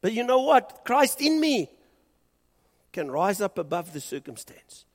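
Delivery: high, loud, rousing statement of faith; realistic declaration. Shown as a demonstration. Preacher models the honest but hopeful words to say, high and loud. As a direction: proclaim it boldly upward.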